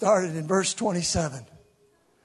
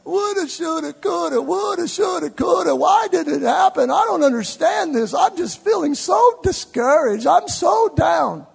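higher, louder mock lament; mock whining disciples; 9 semitones higher, 5 dB louder than usual. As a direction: whine it like a discouraged follower. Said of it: "still walking going".

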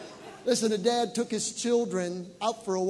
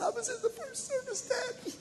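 much higher, tearful daughter's voice; high tearful girl imitation; daughter crying. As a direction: weep it like a moved teenage daughter. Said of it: "She said".

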